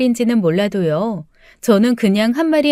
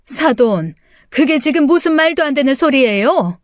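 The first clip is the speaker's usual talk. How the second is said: higher-pitched indignant retort; mildly angry, affronted mother; indignant anger; 3 semitones higher than usual. Acted. Mother rebuking her daughter's mother-in-law, indignant. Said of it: "엄청 화를 냈다더라고요".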